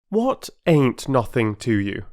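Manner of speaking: put-on slow, worried boy's question; a boy alarmed and puzzled; anxious. Peter to the sulking porter, anxious. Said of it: "too anxious and alarmed".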